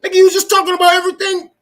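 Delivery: high, loud and fast disbelief; incredulous outburst. Retold or imitated. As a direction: fire it back in disbelief, rushing the words. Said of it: "I'm like".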